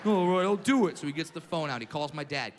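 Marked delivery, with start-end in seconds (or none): 0.0-1.0 louder, clipped reply; irritated principal. Retold or imitated. Principal answering the kid's dare, louder irritated. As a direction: accept the dare, annoyed. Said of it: "principal's reply".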